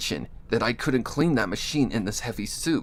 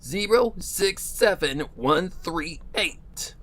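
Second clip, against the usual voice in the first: robotic announcer voice; 9 semitones higher than usual. Acted. Factory intercom announces worker number.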